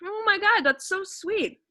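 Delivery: high, gushing excitement. Acted. To the proposing stranger, a high gushing squeal. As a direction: squeal over the sweet news.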